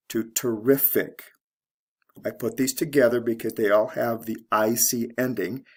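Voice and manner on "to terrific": "terrific" stressed on RIF; teacher's model of "terrific", beat on RIF; stress on second syllable. Shown as a demonstration. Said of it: "to the second syllable".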